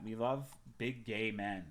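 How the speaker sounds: ordinary talk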